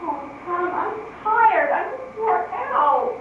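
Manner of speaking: worn out and near tears; tired old aunt breaking into tears; crying. Acted. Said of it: "Please don't cry".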